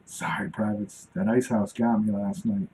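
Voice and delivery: breezy excuse to the privates; lightly voiced sergeant owning up to a late night; laid-back sergeant apology. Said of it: "he would say that".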